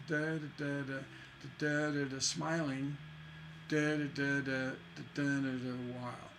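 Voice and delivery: rhythmic da-das, hanging "smiling" resolved by stressed "while"; feminine resolving to masculine. Shown as a demonstration. Teacher shows the couplet resolving, metre chant ending on "while". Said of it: "resolve to a masculine".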